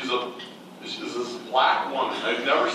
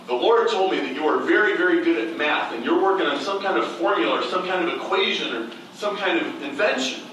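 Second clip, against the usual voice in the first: higher, eager prophetic voice; prophetic stranger; 6 semitones higher, faster than usual. Retold or imitated. A stranger giving him a word from God, excited and high. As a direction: deliver the prophecy with rising conviction.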